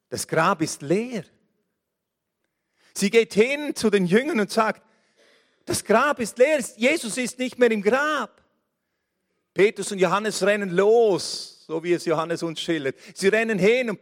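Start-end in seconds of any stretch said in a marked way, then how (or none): 5.6-8.4 excited report. Acted. Mary excitedly reports empty tomb.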